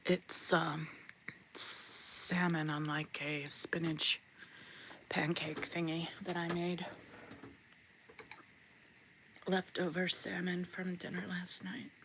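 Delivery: eating between words; chewing while talking. Real, not acted. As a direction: mouth full while talking. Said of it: "won't be eating in your ear".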